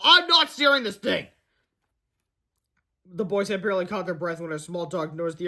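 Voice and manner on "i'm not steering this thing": high, louder character voice; acted excited puzzlement; bewildered protest. A narrator's reading. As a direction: deny it in mid-air alarm. Character baffled on runaway plane.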